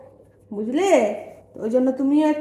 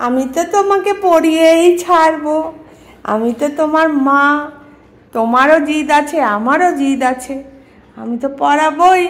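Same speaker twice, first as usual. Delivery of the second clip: firm scolding; 4 dB louder than usual. Real, not acted. Mother insists on dressing pet.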